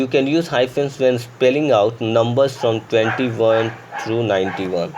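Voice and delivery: very slow dictation of the rule; slow rule reading. Shown as a demonstration. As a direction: read the rule aloud word by word. Reads grammar rule slowly. (धीमी गति से नियम पढ़ना)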